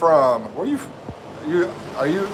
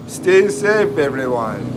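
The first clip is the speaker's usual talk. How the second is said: put-on Jamaican accent; slower than usual. Livestreamer rereading a viewer's goodbye message, in a mock Jamaican accent. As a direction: playfully imitate a Jamaican accent. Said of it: "I'm gonna do this in a Jamaican accent".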